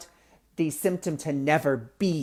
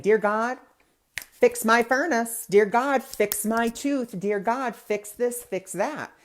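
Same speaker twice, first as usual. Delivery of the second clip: raised, pleading voice, slowing on the requests; mock pleading prayer; 6 semitones higher, slower than usual. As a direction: beg God like a needy petitioner.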